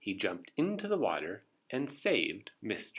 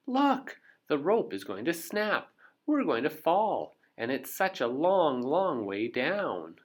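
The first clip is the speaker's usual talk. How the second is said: high, louder frightened warning; alarmed warning; 6 semitones higher, 5 dB louder than usual. Acted. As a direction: cry out that the rope will snap. Mister Brave fears the fall.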